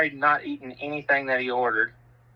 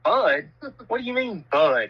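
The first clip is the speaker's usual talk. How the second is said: incredulous; 5 semitones higher than usual. Retold or imitated. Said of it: "he goes".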